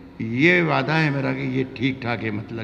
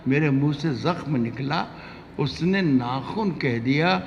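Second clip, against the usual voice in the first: ghazal recitation; slower than usual. Acted.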